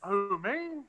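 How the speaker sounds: distant tinny phone sound; tin can voice. Real, not acted. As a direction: sound far off, like through a can. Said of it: "you sound like you're in a tin can very far away".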